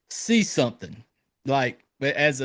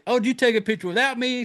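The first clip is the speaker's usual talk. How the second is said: put-on quick, pitched-up stuck-up girl; snobby rich girl; 6 semitones higher, faster than usual. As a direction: breeze in like the popular girl. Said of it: "She comes in like".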